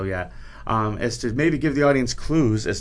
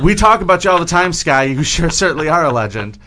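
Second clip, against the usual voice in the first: hyped praise; 4 semitones higher, 9 dB louder than usual. Acted. Hyping the guest.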